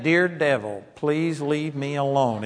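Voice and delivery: slow, mild imitation of pleading; politely beg, mock-passive; mock meek plea. Passive Christian asking the devil to leave, mock meek.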